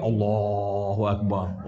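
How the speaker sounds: slow, soft imitation of a man starting his prayer; mock worshipper. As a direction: act out the onion-eater saying the takbir, slowly. (meniru jemaah bertakbir dengan perlahan dan lembut)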